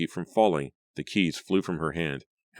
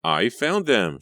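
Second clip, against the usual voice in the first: louder, higher cry of relief; relieved cry; 6 semitones higher, 6 dB louder, slower than usual. A narrator's reading. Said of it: "she cried".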